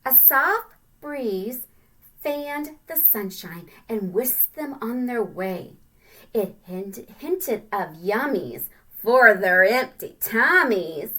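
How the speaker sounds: slow, expressive read-aloud; storybook reading. Acted. Teacher reading the ant book to children, slow and expressive. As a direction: read it slowly like a picture book.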